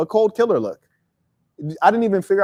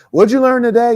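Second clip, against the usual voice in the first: louder, higher, flat dutiful question; mom's routine question; 8 semitones higher, 5 dB louder than usual. Retold or imitated. Speaker imitating his mom asking about school. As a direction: ask it like a tired routine. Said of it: "my mom like".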